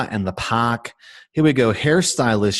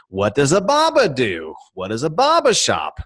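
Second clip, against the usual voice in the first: put-on Boston accent; 4 semitones higher than usual. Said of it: "a Boston accent".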